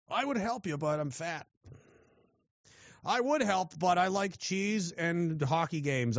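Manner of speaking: mock a useless guy begging off; useless-guy excuse. Useless fat boomer excusing himself from helping, in a mock whine. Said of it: "you don't wanna be that guy who's useless".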